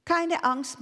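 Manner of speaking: high-pitched little bird voice; chirpy sparrow. A narrator's reading. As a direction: pipe it up like a small sparrow. Sparrow reassures the ostrich.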